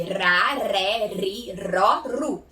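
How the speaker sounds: "rá, ré, ri, ró, ru" with tongue-tip R; weak R. Shown as a demonstration. Teacher listing weak sounds, tongue-tip R. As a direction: vibrate the R lightly in "rá, ré, ri, ró, ru". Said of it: "continua com som fraco".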